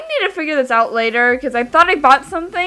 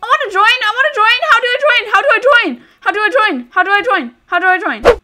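eager pleading; 5 semitones higher than usual. Real, not acted. Eager to join robot fight.

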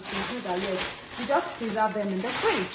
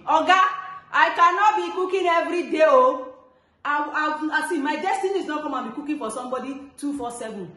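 loud, high firm protest to the husband; telling husband off; 3 semitones higher, 4 dB louder than usual. Retold or imitated. A mom coaching wives to tell husbands, loud firm protest. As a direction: put your foot down with him. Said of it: "tell him".

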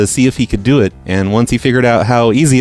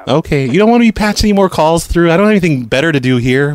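higher, chirpy phone operator voice; prank caller voice; 5 semitones higher than usual. Acted. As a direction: play a cheerful phone company rep.

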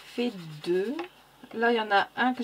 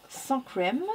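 English colour name in an odd French accent; accidental odd accent. Real, not acted. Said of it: "j'adore l'accent que j'ai eu là".

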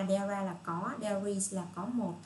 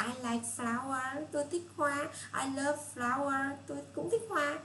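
bright teacher demo; 6 semitones higher than usual. Shown as a demonstration. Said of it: "tức là".

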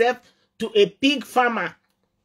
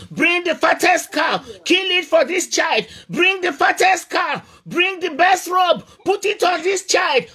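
father's joyful commands; 5 semitones higher than usual. Acted. Father orders the celebration.

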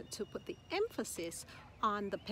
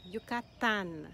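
"Yucatán" weighted on the final "tán"; last-syllable stress; 3 dB louder, slower than usual. Shown as a demonstration. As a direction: lengthen and stress the end of "Yucatán". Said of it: "emphasis is on the last syllable".

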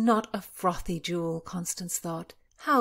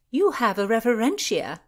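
high, loud amused exclamation; a touch of laughter in the voice; 5 semitones higher, 7 dB louder than usual. A narrator's reading. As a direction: tease a friend, lightly amused. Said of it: "Constance laughed".

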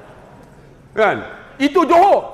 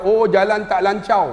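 loghat Melaka. Retold or imitated. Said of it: "bahasa orang Melaka".

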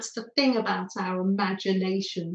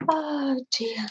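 whisper; 3 semitones higher, 4 dB quieter than usual. Real, not acted. Aside after laughing at herself.

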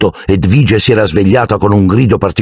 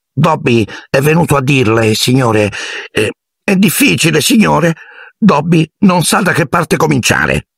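much higher elf voice, fumbling for words; a servant too anxious to begin; fretful house-elf; 10 semitones higher than usual. A narrator's reading. House-elf trying to warn Harry, much higher and flustered. Dobby struggles to explain.

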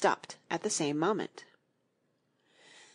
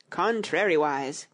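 Tweedledee voice. Acted. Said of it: "continued Tweedledee".

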